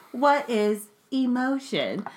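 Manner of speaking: slow, flat robotic question; deadpan like a machine. Acted. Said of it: "in my robot voice".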